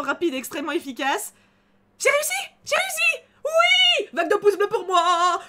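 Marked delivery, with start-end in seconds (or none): 2.0-5.4 much higher, loud triumphant yell; victory shout. Real, not acted. Streamer celebrating beating the QTE, real triumphant shouting. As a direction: scream with joy at the win. Winning the quick-time event.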